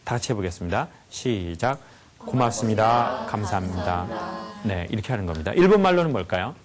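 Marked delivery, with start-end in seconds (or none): 2.2-4.5 slow, sincere thank-you, softening at the end; heartfelt thanks. Shown as a demonstration. Lecturer leading the audience in thanking the water, slow and heartfelt. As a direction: draw the thanks out gently and mean it. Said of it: "진심으로 이렇게 하라고 합니다".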